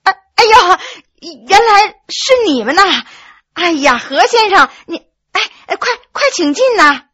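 high, loud embarrassed welcome; wife blushing as she invites guests in; flustered. Acted. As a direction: stumble over greetings, caught off guard.

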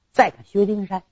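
ordinary delivery, nothing marked

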